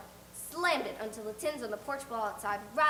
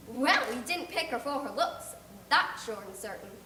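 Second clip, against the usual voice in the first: emphatic; 4 dB louder than usual. Acted. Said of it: "Missus Rachel's emphatic comment".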